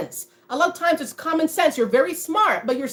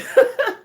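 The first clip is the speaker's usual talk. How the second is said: short high laugh; 12 semitones higher, 5 dB louder than usual. Real, not acted. Laughing at the silent treatment.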